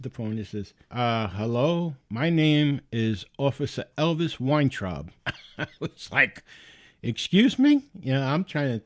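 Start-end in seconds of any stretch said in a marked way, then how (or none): 0.9-5.1 lightly put-on Indian accent; mock Indian-accented official introduction. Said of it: "an Indian accent". 7.0-7.8 high, loud incredulous question; startled, disbelieving query. Retold or imitated. His startled reaction to the name.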